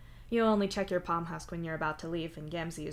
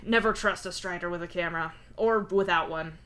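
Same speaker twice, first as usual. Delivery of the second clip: thoughtful; 4 dB louder than usual. Acted. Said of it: "you say thoughtfully".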